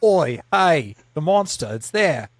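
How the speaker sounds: put-on retry the Scottish accent and miss it; worse Scottish accent. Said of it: "that was worse".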